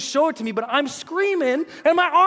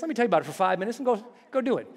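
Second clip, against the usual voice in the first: offhand advice; 4 semitones lower, 5 dB quieter, much faster than usual. Retold or imitated. Mimicking breezy advice givers.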